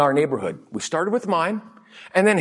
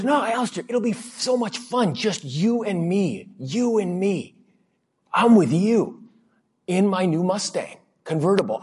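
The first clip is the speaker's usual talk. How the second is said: put-on coaxing old teacher; 5 semitones higher than usual. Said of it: "But he goes".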